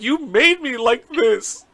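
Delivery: very high, drawn-out whine; mock crying child. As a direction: wail slowly like an upset daughter. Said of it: "'cause she started crying".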